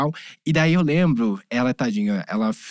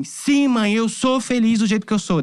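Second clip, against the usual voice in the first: high, insistent retold reply; mildly impassioned answer, pitched up; emphatic declaration; 7 semitones higher, slower than usual. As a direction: declare it firmly to a mother. Son's emphatic reply to yelling mother.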